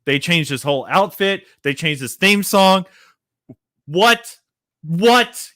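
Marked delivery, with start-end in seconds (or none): 3.9-5.5 surprised. Real, not acted. Outraged at Keith Lee changes.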